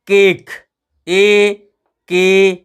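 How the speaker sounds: केक broken down with ए held long. Shown as a demonstration. Teacher sounds out cake for pupils, long A. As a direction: draw out the ए in केक. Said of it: "ए का स्वर आया".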